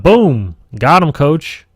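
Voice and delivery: loud gleeful boom, got him; hammed-up orc cheer; triumphant orc shout. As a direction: bellow the hit like a proud brute. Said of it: "And he's all like".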